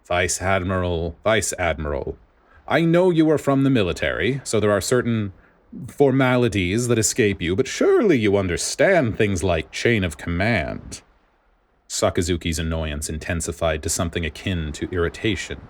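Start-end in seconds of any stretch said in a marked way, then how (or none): 0.0-11.0 theatrical, condescending, rising higher; mildly hammed-up weary superior; condescending official. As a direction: talk down to him with mock patience. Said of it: "Spandine let out a dramatic sigh".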